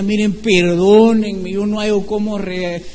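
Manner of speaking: acted remorseful begging, halting and stretched; repentant pleading. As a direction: act out an anguished apology. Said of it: "si él viene y se arrepiente".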